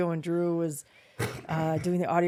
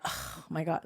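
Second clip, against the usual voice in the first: softer, dropped "Oh my God" of disappointment; dismayed oh my God; 6 dB quieter, slower than usual. Shown as a demonstration. Dad misread as disappointed, a softer dismayed mutter. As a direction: let it sink, letdown. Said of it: "like that, but it wasn't".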